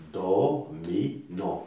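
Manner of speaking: "Do, mi, non" in three separate beats; teacher's split-up "Do, mi, non"; syllable by syllable. Shown as a demonstration. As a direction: count out "Do... mi... non" evenly. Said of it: "trois syllabes".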